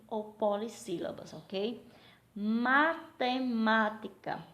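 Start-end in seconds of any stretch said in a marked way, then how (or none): 2.3-4.4 slow MA - TE - MÁ - TI - CA; syllable by syllable. Shown as a demonstration. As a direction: count out "Matemática" in separate beats. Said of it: "quantas sílabas tem?".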